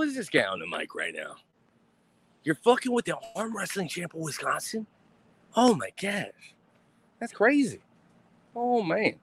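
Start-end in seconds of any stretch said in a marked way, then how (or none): 2.4-9.1 mock terror.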